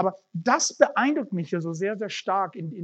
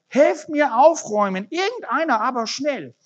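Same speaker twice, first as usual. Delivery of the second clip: high, louder urgent plea; urgent call for help; 9 semitones higher, 6 dB louder than usual. Acted. Man begs anyone to help tidy up, urgent loud call. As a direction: yell for anyone to come quickly. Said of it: "rief er".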